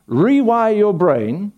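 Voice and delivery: each word slowed and pressed; slow, loud command; slow emphatic. Acted. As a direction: drill it in slowly. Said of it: "preacher urging congregation".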